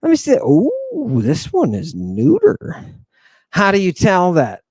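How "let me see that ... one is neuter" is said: raised pitch, playfully calling a noun over; playful summoning. Pretend. Teacher calls the noun over to see its gender, playful.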